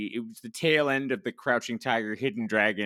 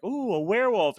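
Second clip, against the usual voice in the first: high, louder cooing thrill; playful oohing, pitched way up; mock excitement; 11 semitones higher, 5 dB louder than usual. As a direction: imitate someone gleefully thrilled by a monster. Mimicking the characters' glib thrill.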